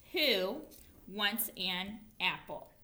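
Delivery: a pause after "who", then "wants an" joined; slowly group it "who", "wants an", "apple"; phrased fluency sweeps. Shown as a demonstration. Teacher marks reading phrases, pausing between "who", "wants an" and "apple". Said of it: "put my fluency sweeps".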